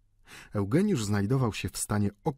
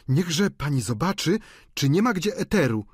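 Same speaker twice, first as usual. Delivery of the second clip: higher, brisk woman's request; panna Michonneau; 7 semitones higher, 3 dB louder than usual. A narrator's reading. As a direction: send her off to look, voice raised in pitch. Panna Michonneau prosi o eter. (wyższy głos kobiety, polecenie)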